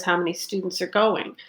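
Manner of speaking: going stressed, voice rising on going; pitch up on going. Shown as a demonstration. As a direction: put the focus on going. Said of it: "And my pitch goes".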